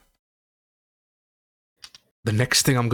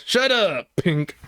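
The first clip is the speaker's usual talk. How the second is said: laughing shut up; 9 semitones higher, slower than usual. Real, not acted. GM laughing at player joke.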